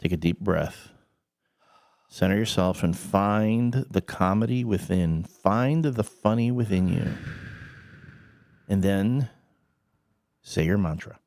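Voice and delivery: mock-solemn meditation guide; guided centering. Host centering the co-host before the joke, mock-solemn.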